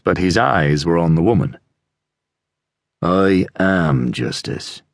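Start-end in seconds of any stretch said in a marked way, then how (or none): 3.0-4.8 slow, cold and deliberate; icy. Acted. Sergeant silencing the apple seller, slow and icy. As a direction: lay it down slowly like a verdict. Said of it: "The voice was so icy".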